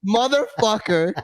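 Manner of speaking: high, laughing self-scolding; mock-scold yourself while laughing; laughing at his own mistake, high and giddy. Real, not acted.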